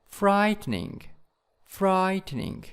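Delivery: "frightening" with a high FRIGHT; stress on first syllable. Shown as a demonstration. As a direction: hit the start of "frightening" high, then drop. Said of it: "in the first syllables".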